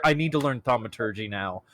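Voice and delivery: deep puppet character voice; Doctor Buttons voice. Retold or imitated. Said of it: "Doctor Buttons sits there".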